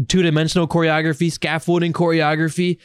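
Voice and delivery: ordinary talk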